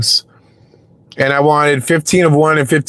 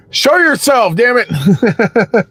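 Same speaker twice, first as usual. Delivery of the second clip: high hushed mock summons; teasing whispered call into the chat; playful whisper; 7 semitones higher, much slower than usual. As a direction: whisper it like calling out a spirit. Calling out for drunks in chat.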